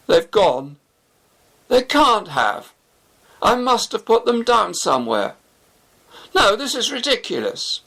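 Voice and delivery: spiralling into panic, line by line; growing desperation. Acted. Shafi searching his pockets for lost keys, panicking. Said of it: "looking increasingly desperate".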